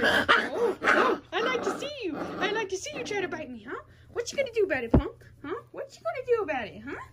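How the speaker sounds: playful high taunting to the kitten; mock-tough taunt. Real, not acted. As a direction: dare the little cat to bite, half-joking. Teasing the angry kitten.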